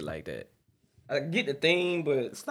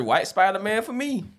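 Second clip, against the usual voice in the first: frat bro; 8 semitones higher, 3 dB louder than usual. Pretend. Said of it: "I don't know why I said that like that".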